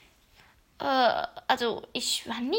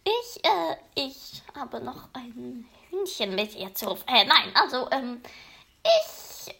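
stammering. Acted. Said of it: "stammelte Crow".

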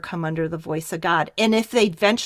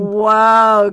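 loud impressed whoa; 8 dB louder than usual. Retold or imitated. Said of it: "And I went".

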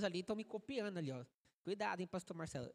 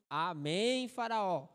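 pastor shouting; 2 semitones lower, 6 dB louder, much slower than usual. Retold or imitated. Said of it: "o pastor gritando assim".

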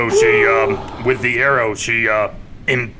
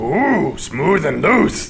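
suggestive; 2 semitones higher, slower than usual. Real, not acted. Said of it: "I'm such a sexual being".

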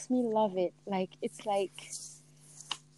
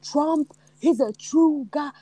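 put-on Trump supporter accent; 3 semitones higher, slower than usual. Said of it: "it reminds you of Trump supporters".

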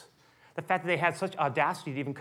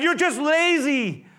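furious, high, loud shout; angry king shouting down the foremen, slow and high; Pharaoh shouting; 10 semitones higher, 7 dB louder, slower than usual. Acted. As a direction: bellow at the lazy slaves. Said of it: "But Pharaoh shouted".

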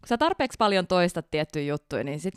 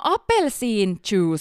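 put-on Finnish-accented English; 4 dB louder, much slower than usual. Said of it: "se yritti sanoa".

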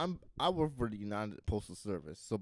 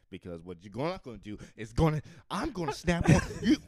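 mock snapping; 5 dB louder than usual. Postal worker fed up with demanding customer, mock snapping. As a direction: act like you're losing your temper, laughter breaking in. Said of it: "and then he just snaps".

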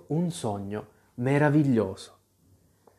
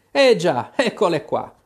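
triumphant; 4 semitones higher, 3 dB louder than usual. Acted. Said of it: "disse il re trionfante".

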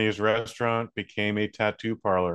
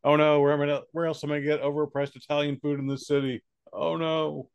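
raised pitch, hammed-up helpless fretting; mock panic; 6 semitones higher than usual. Diner left without overpriced Italian food, mock panic. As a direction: act out a petty crisis. Mocking upset San Francisco diners.

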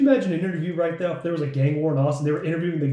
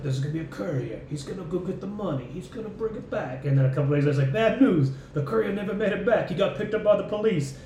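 Christopher Walken impersonation; 4 semitones higher than usual. Retold or imitated. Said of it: "that was such a good Christopher Walken impersonation".

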